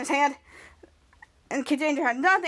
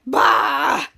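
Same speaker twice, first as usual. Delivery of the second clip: loud, drawn-out mock cry; put-on wailing shout; acted outburst; 6 dB louder than usual. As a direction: blurt out a big "bah".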